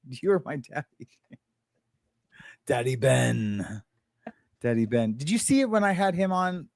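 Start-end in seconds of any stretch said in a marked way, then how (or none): none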